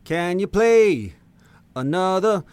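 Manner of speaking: high, slow, drawn-out silly voice; goofy high voice. Pretend. Goofy voice requesting a song.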